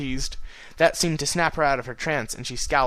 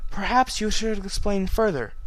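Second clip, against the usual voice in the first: gentle suggestion; 8 semitones higher than usual. A narrator's reading. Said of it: "the princess suggested gently".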